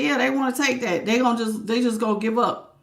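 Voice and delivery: quietly passing on what Spirit said; hushed, under the breath; soft relayed spirit words. Retold or imitated. Reader relays Spirit's message in a hushed voice. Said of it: "Spirit said".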